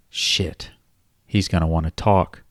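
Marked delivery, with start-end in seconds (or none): 0.1-0.7 a quick hushed curse under the breath; muttered curse. Acted. Kyle cursing to himself over the phone, hushed. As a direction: breathe the curse out, barely voiced. Kyle's dismayed aside.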